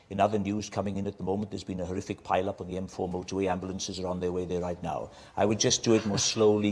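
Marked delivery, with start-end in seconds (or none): 0.1-5.1 put-on lightly done Welsh-accented newsreader; Anthony Hopkins Welsh newsreader. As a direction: lower Welsh newsreader lilt, a bit fast. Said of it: "more of a sort of Anthony Hopkins".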